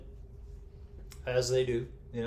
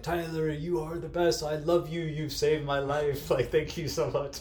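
grateful gushing; 4 semitones higher than usual. Retold or imitated. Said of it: "He's like".

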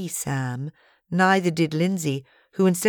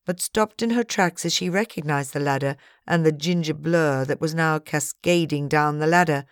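usual speaking voice

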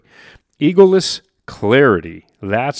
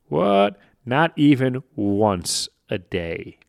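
mock surprise; 3 semitones higher, slower than usual. Reacting to own statistic.

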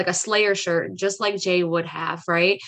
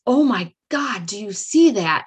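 mock yell; 3 dB louder than usual. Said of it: "my husband yells".

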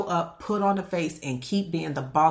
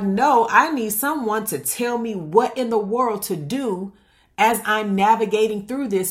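insistent inner protest; 3 semitones higher, 3 dB louder than usual. Acted. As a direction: push back, demanding real guidance. Acted inner plea against dismissal.

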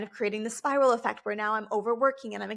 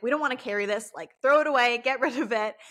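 voicing the nervous system; 2 semitones higher, 4 dB louder, faster than usual. Nervous system personified, fed up and louder. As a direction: throw it off like it's too heavy. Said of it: "your nervous system is like".

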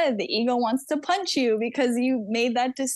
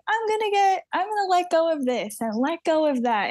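higher, sing-song mock positivity; airy, pitched-up make-believe optimism; mock naive optimism; 5 semitones higher than usual. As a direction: lightly send up breezy self-help cheer. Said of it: "it's literally not just like".

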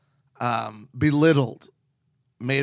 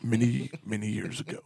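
William Shatner. Pretend. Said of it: "Like William Shatner?".

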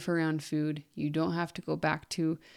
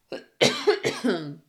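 choking cough; 6 dB louder than usual. Real, not acted. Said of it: "sorry, I'm choking".

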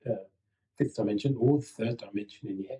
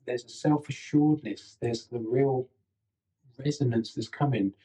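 softer, quieter, self-assured tone. Shown as a demonstration. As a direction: settle back into a soft, quiet calm. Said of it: "you'll hear the tone of my voice has changed again".

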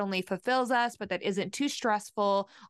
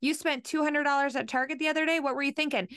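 mock accusing spouse; 5 semitones higher than usual. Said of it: "We weren't laughing and saying".

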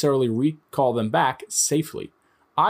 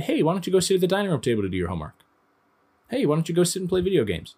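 friendly suggestion; 6 semitones higher, faster than usual. Retold or imitated. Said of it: "It's like telling a kid".

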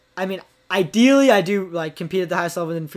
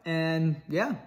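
talking with a retainer in; wearing a retainer; 5 dB quieter than usual. Real, not acted. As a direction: retainer in, slightly lispy speech. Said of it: "I got my retainers in, so this outro is gonna sound very disgusting".

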